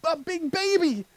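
a loving God telling you to grow up; lightly voiced God, mock stern then kind; God's voice. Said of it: "God is saying".

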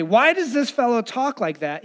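mock objection said aloud; Pharisees speaking out. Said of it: "the Pharisees say".

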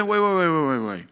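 urgent stopping call; exclaimed wait. Retold or imitated. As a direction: cut yourself off with a cry of wait. Interrupting himself in the retold talk.

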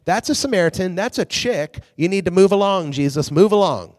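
high, excited pretend bystander warning Jesus off; alarmed onlooker. A shocked onlooker tells Jesus to move along, high and excited. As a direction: shoo him away in mock alarm. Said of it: "they're gonna be like".

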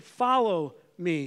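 "Follow" slowed and weighted, "me" falling; firm command. Acted. Jesus calling his disciples, slow firm command. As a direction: say "Follow me" as a clear order. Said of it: "he made that very clear in that command".

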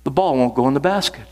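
retold huddle prayer with lilting phrases. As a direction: pray it aloud, lifted and rolling. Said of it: "up, he prayed".

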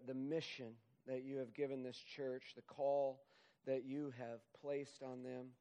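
earnest pastoral prayer, unhurried; closing prayer. Acted. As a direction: pray over the congregation, sincerely.

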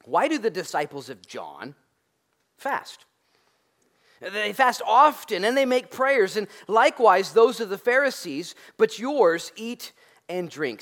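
religious police accusing. Retold or imitated. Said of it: "he said, the religious police".

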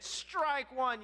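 umpire's call. Retold or imitated. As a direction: imitate an umpire calling out, slowly. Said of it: "yells the umpire".

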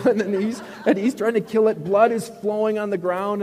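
loud, high, hammed-up horror; high frantic telling, slowing as the horror mounts; mock panic. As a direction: wail the story out at full voice. Acts out the panicked killing scene.

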